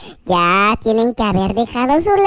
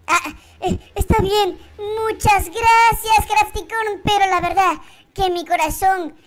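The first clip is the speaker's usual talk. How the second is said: high character voice; 8 semitones higher than usual. Acted. Same character, letting her down gently.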